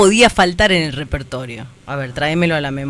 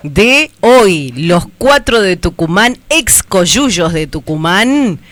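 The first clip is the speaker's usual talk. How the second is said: shouting on bad phone line; 4 dB louder, slower than usual. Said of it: "espera que te presente".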